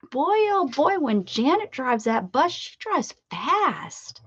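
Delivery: high, slow exaggerated emphasis on fast; mock-impressed. Teasing Janet about her fast bus driving, mock-impressed drawl. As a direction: tease her with a drawn-out fast.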